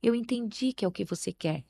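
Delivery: calm a tantrum with a soft, patient voice; gentle, soft to a child. Shown as a demonstration. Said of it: "você falar baixinho também com a criança".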